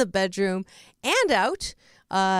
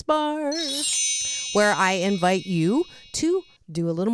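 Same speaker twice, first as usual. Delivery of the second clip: show promo announcer; 2 semitones higher than usual. Real, not acted. Host welcoming listeners to the balance bar, announcer style. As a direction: sell the segment to listeners, pitch swinging up. Host's scripted promo segment.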